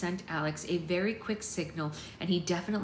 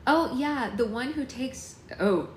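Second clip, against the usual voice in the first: higher-pitched character voice; wrong character voice; 6 semitones higher, 5 dB louder, much slower than usual. A narrator's reading. Parent recognising Alex, higher character voice. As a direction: voice the parent too high, then stop short. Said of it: "sorry, that was the wrong voice".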